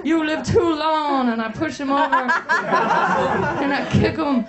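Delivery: hammed-up shouting jock; shouting rant. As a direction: yell it like a proud bully.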